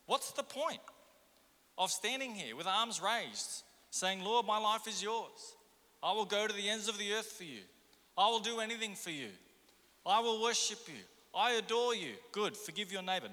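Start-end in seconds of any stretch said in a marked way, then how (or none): 4.2-12.2 mock fervent prayer. Churchgoer mocking his own grand promises to God, prayer voice. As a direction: pray like a showy worshipper promising everything.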